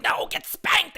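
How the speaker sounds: high whispered retort. Retold or imitated. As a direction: whisper it back, sly. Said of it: "he was like".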